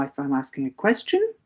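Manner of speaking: "question" lifted at the end; questioning intonation. Shown as a demonstration. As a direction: let "question" rise as if asking. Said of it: "intonation is just when I go up and down".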